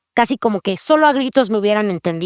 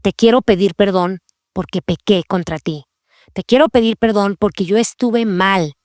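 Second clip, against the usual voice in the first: lower, earnest, owning the fault; a humble sorry to your child; plain sincere confession with no excuses; sincere apology; 3 semitones lower than usual. Shown as a demonstration. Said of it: "Nosotras podemos modelarle a nuestros hijos".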